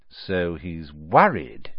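slow, low and satisfied; grim satisfaction. Acted. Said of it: "said Mister Weasley with grim satisfaction".

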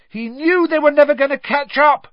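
high, loud shout over noise; shouting back. A narrator's reading. Harry answering his friend over all the noise, shouting. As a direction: shout to be heard over a crowd. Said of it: "Harry shouted back over all the noise".

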